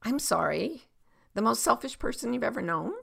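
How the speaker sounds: mild, questioning repeat with rising endings; genuine mirroring apology. Shown as a demonstration. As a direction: mirror it back gently, without a fight. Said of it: "but you don't say it like".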